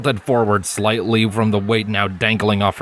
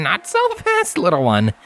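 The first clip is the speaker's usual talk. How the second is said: chuckle; 10 semitones higher than usual. A narrator's reading. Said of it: "Lens interrupted her with a chuckle".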